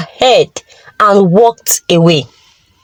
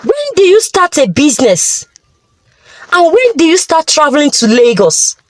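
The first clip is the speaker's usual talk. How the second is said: mildly angry, quick questioning; a touch of a father's anger, rushed; understated angry demand; 3 semitones higher, faster than usual. Acted. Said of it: "Mister Obiora said angrily".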